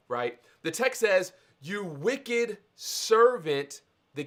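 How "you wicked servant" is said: slow, drawn-out roar on wicked; roaring tyrant king. Retold or imitated. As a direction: roar it out, stretching each word.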